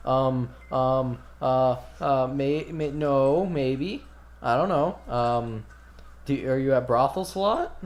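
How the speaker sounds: mildly flustered, halting and evasive; nervous stuttering. Acted. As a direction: stammer through a bad cover story. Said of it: "but he kinda stuttered".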